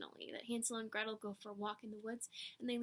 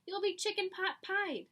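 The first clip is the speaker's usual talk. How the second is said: warning; 7 semitones higher, 3 dB louder than usual. Acted. Papa warning continues.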